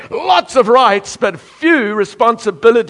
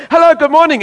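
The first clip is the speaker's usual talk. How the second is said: cheery greeting; 8 semitones higher, 6 dB louder, faster than usual. Retold or imitated. Preacher greeting congregation.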